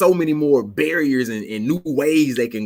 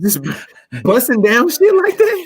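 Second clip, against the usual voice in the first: laughing in disbelief; 10 semitones higher, 4 dB louder, slower than usual. Real, not acted. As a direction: laugh through the question. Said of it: "Cats just doing it?".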